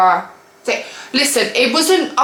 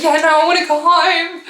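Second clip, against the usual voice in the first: higher, laughing through the words; laughing refusal; 7 semitones higher than usual. Retold or imitated. Telling viewers how she refused him, laughing.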